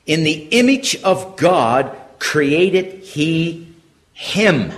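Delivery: slow reading, HIM set apart after a pause; emphatic HIM. Shown as a demonstration. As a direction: read slowly, pause, then land on "him". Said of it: "him is emphatic".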